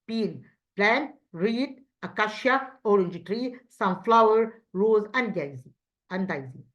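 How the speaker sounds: clear, measured word-list reading; repeat-after-me drill. Shown as a demonstration. Teacher reads the word list for pupils to repeat, measured drill voice. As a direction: model each word for the class to echo. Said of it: "repeat after me".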